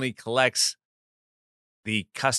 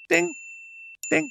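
imitated ding. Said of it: "a little ding, a counter".

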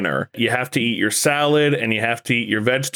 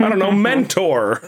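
caring mentor; 8 semitones higher than usual. Pretend. Mocks a caring Jedi mentor.

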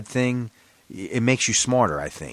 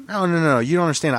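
retold protest; 5 semitones higher, faster than usual. Acted protest to the cop.

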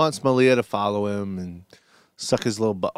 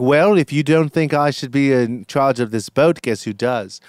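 put-on British accent; 4 dB louder than usual. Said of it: "Yes, I'm British now".

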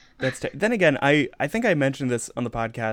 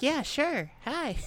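put-on much higher, breezy kid-actress voice; imitating Dakota Fanning; slower than usual. Mocking the child actress's breezy yes to the producers. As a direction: chirp it like an unbothered child star. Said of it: "She's like".

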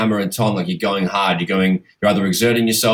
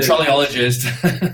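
slow, relishing the word; drawn-out savoring; much slower than usual. Real, not acted. Cohost slowly savoring the new slang word. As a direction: stretch out "trolleyologist" with relish.

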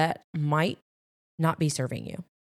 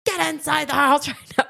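mild mock yell, laughing midway; retold yell at kid; 10 semitones higher, 5 dB louder than usual. Mom retelling how she yelled at her son across the yard. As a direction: order him in, half laughing.

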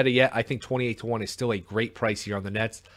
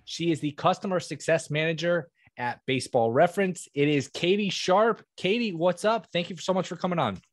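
higher, upbeat host intro; announcer voice; 6 semitones higher than usual. Acted. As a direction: welcome the guest like a radio host. Show host intro over music.

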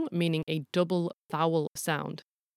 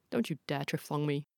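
low, softer scolding; mock parental warning; 3 semitones lower, 6 dB quieter than usual. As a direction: warn a cheeky child in a low, quiet voice. Parent voiced scolding a kid.

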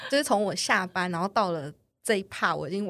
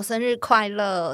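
slow mock greeting; 3 semitones higher, 6 dB louder, slower than usual. Date presents cake.

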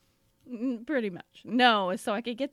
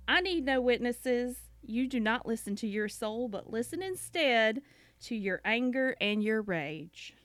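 sermonize like a pastor's wife; Southern Baptist preacher's wife. Acted. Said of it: "I'm gonna read it in my best, um, Trixie Mattel, uh, Southern Baptist preacher's wife voice".

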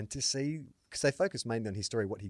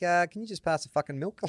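casual swearing; 8 semitones higher, 3 dB louder than usual. Retold or imitated. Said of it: "Like, he's not even angry".

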